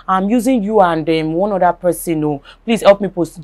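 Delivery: mild retold pleading, softly voiced. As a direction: softly imitate someone asking a favour. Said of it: "a, a plead, like, you know, pleading that".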